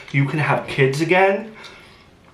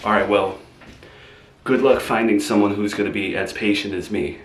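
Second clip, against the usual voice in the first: raised, resentful rant; loud bitter parting shot; 5 dB louder, faster than usual. Acted. Boyfriend ranting at Gabby as he is thrown out, loud and bitter. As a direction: fire off the insults on the way out.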